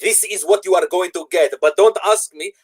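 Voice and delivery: slow, laughing put-on Arab accent; a playful Arab accent through a laugh; mock Arab accent. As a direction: drawl it out in a jokey Arab accent. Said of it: "I don't even know why I done it that accent".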